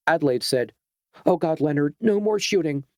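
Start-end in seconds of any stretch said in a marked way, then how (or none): 1.3-2.9 higher, frightened plea; pleading. Acted. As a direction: beg him to stop. Adelaide begs him to stop.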